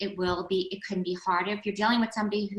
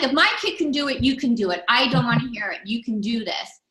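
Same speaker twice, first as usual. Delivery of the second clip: tough mom talk; 3 dB louder than usual. Retold or imitated. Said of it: "the tough Jewish mom there".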